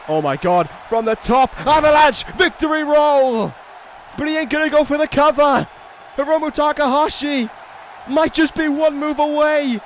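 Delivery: excited commentary burst; excited call. Real, not acted. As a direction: call the big move as it lands. Live call of big move.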